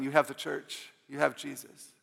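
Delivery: ordinary talk, nothing marked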